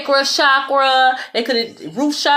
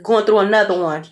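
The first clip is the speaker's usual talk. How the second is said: lightly imitated hype-man refrain, pitch climbing with each repeat; a hint of rhythmic hype-man chant, starting low; 3 semitones lower than usual. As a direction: repeat it like a loose catchphrase impression, evenly spaced. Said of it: "Like D J Khaled".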